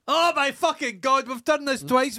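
loud, high exasperated groan of frustration; exasperated outburst. Real, not acted. To his co-host, fed up at forgetting the film title again, a loud exasperated outburst. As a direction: throw your hands up, fed up.

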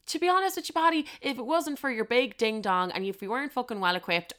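high, loud outraged ranting; shrieking offended disbelief at being called vanilla; retold rage. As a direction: blast him with indignant fury. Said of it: "I was raging".

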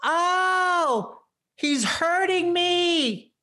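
high, pained fake scream; old lady crying out that he's hurting her; mock screaming. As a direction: wail it like a victim faking hurt. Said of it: "she starts screaming".

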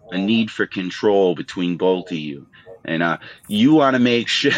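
lightly voiced TV therapist, calm and probing; mock Doctor Phil. Co-host mediating the two hosts' feud, mild mock therapist voice. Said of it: "Did you just try to Doctor Phil?".

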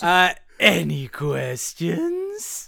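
slow deadpan any questions; drawn-out deadpan quip; lightly voiced David S. Pumpkins. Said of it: "What's the thing he says?".

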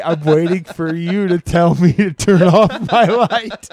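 creepy grin. Retold or imitated. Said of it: "I'm creepy smiling at her".

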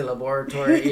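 "laboratory" as la-BOR-a-tory; quick "laboratory" with the stress on BOR; Dexter's pronunciation. Retold or imitated. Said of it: "adapting to what Dexter would say".

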